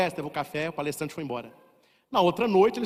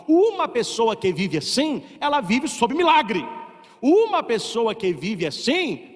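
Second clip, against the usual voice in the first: rising preacher emphasis; 4 semitones higher, 5 dB louder, slower than usual. Acted. Preacher builds to climax.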